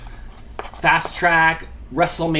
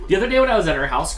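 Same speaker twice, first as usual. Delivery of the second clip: 1 rushed retake; much faster than usual. Shown as a demonstration.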